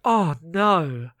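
drawn-out groaned "oh no"; a restrained first cringe at something awful; embarrassed dismay. Retold or imitated. Cohost reacts to bad poem read out, embarrassed dismay. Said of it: "it's embarrassing".

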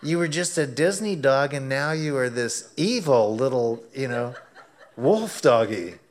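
loud, laughing mock horror; laughing exclamation. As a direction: laugh it out in amused disbelief. Laughing at dog turned fierce.

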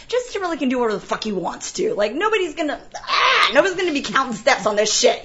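fast, high-pitched mock tirade; exasperated rant. Producer brushing off crew's rehearsal idea, exasperated. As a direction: rattle it off in comic exasperation.

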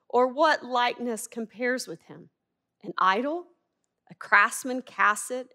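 measured, reverent reading of the passage; scripture reading. Acted. Preacher reads Isaiah to the congregation, reverent and measured.

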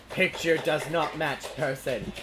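slow mock machine voice; robot voice. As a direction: read it out like a flat robot, slowly. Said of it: "and it said".

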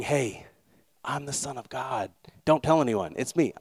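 hushed, secretive aside; confidential. Acted. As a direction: let it slip softly, as a secret just between you. Jesus quietly revealing a secret.

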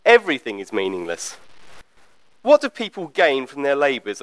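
measured Bible reading aloud; scripture reading. Acted. Preacher reading the opening verses to a congregation, measured scripture reading. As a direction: read the verses out evenly, with deliberate phrasing.

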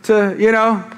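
put-on high sing-song call to the kids; cheery call again. Dad calling his kids again, high and cheery. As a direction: call it out brightly. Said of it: "I do the same thing".

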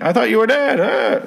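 very high, squealed disbelief without extra volume; excited mock cry. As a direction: imitate an overexcited friend in a high voice. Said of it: "he's all excited".

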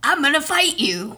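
lightly voiced Rocky tough guy; a hint of a mumbling boxer; Sylvester Stallone impression. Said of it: "That was Sylvester Stallone you just did".

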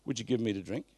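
gentle, courteous asking; polite, respectful plea; polite request. Shown as a demonstration. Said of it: "but Jesus wouldn't have been rude".

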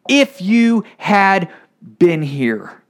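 angry reproach. Pretend. Grieving sister blaming Jesus for his absence, angry and slow. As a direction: lean on the word If, bitter. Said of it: "I think Mary and Martha were angry".

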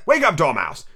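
brisk rousing cry. Acted. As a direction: call out to rouse a sleeper. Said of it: "they both cried".

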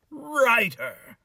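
ordinary talk, nothing marked

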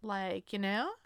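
light Valley accent, rising at the end; a hint of Valley-girl questioning tune; Valley accent uptalk. Shown as a demonstration. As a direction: lift the end like a Valley speaker. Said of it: "goes up at the end".

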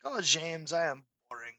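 a soft, lightly voiced French accent; French colonel accent. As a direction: imitate a French officer speaking English. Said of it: "there was a French colonel".

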